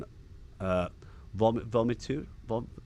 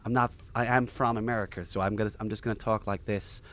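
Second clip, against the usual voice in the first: put-on British speaker trying an American accent. British guest pretending to be from America in a put-on American accent. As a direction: pass yourself off lightly as American. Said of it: "am I doing my American accent".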